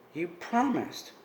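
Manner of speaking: slow, soft hurt plea. Acted. Bella quietly reminding Edward of his promise, slow and soft. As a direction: draw it out slowly, softly wounded. Bella pleads after being refused.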